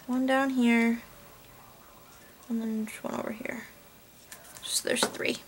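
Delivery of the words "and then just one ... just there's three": whispered counting while working; hushed whisper, concentrating. Real, not acted. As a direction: whisper it as you place each one. Quiet counting while placing sequins.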